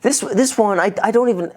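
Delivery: halting, badly faked British accent; failed British accent. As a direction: stumble through a mock British accent. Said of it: "I can't do the accent".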